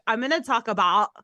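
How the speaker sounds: light put-on Canadian accent; mock Canadian accent. Teasing co-host about his offensive accent, mock Canadian. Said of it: "Why is your accent so shitty?".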